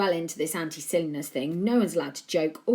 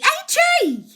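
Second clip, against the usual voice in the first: loud, high sharp snap; 11 dB louder than usual. A narrator's reading. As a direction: snap his name as a warning. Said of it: "his mum snapped".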